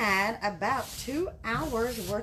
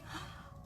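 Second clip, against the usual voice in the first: mock gasp; 15 dB quieter than usual. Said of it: "I'm shocked".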